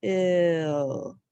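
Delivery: Till said alone, clearly; second syllable sounded. Shown as a demonstration. Teacher sounds out the second syllable. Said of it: "Second syllable".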